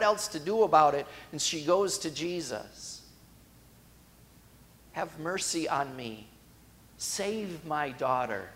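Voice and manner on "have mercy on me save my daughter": soft, slow, pleading mother; a hushed, drawn-out cry for help; quiet plea. Acted. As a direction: beg him quietly and slowly.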